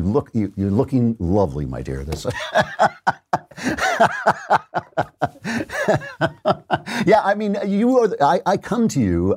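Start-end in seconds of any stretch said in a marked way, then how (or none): 2.3-7.0 high laughing burst. Real, not acted. Big laugh at guest.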